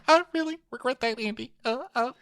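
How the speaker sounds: high, whiny mock apology that slips into cursing; mock tearful Deandra. Imitating Deandra apologizing then cursing her mother, high and whiny. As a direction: wail the regret, then snap the curse. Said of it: "Cut back to her going".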